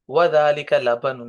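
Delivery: slow teacher demo; slow Arabic reading. Shown as a demonstration. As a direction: model وذالک لبن slowly for the class. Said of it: "تلفظ اس کا ٹھیک کر لیں".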